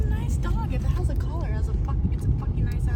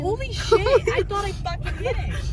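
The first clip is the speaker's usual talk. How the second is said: real shaken shock; 8 semitones higher, 3 dB quieter than usual. Real, not acted. Nearly hit a dog.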